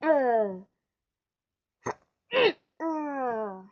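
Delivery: mock throat-clearing ha-uh laugh; hammed-up copy of mom's laugh. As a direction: tease mom by copying her laugh. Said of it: "make fun of her and just go".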